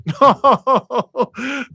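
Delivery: a loud, high burst of real laughter; laughing out loud at the chat. Real, not acted. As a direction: cackle at the cheeky comment. Laughs at cheeky chat line.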